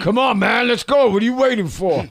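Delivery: loud, high catchphrase shout; action figure shout. Pretend. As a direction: yell it like a hyped toy. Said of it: "I picture you saying something like that".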